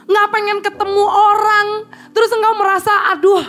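a touch of a whimper in a restless moan; mock anguished whine. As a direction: play out the gloom, half-crying. Acting out sudden restlessness.

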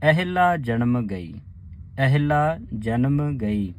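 ਅਹਿਲਾ said slowly with the ਅ clear; careful recitation. Shown as a demonstration. Teacher showing the sangat how to say ਅਹਿਲਾ. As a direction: chant ਅਹਿਲਾ ਜਨਮ ਗਈ slowly. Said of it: "ਕਿਵੇਂ ਉਚਾਰਨ ਕਰਨੇ ਨੇ".

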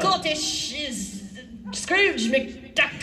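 slow, hammed-up Scottish accent. Shown as a demonstration. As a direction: try a clumsy cartoonish Scottish brogue. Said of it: "Do a little bit".

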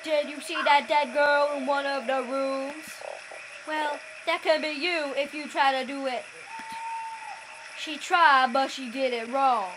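a hint of a toad voice; frog voice. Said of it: "I need to think of a frog voice".

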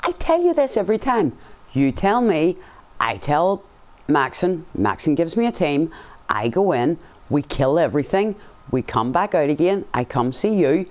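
high-pitched exasperated rant; fed up, ranting at the screen. Real, not acted. Frustrated rant at game dialogue.

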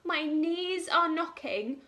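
high, trembling frightened cook voice; scared cook. Acted. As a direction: squeak it out like a terrified little cook. Scared cook in children's story.

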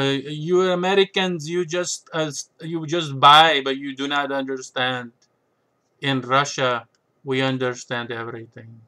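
hammed-up Russian accent, "do not" said full and stiff; mock Russian accent. Imagined Russian viewer scolding American buyers, in a mock Russian accent. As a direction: tease like a stern Russian chess player, in a put-on Russian accent. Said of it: "say it in a Russian accent".

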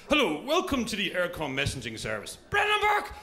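lightly voiced answering machine message; mock voicemail announcement; recorded message voice. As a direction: read it like an automated greeting. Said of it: "I get this".

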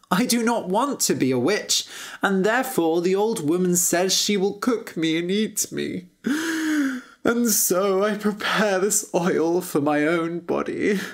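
lightly voiced prince, resigned to doom; a hint of a sorrowful storybook prince; mildly mournful captive prince; forlorn prince.

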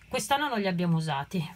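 breathless from lifting boxes; out of breath. Real, not acted. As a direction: speak while catching your breath. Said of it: "scusate il fiatone".

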